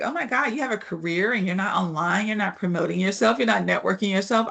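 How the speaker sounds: light mock Valley Girl accent, judging tone; a hint of Valley Girl, playing the judgy onlooker; lightly voiced Valley Girl accent mocking someone offline. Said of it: "I took on that Valley Girl accent".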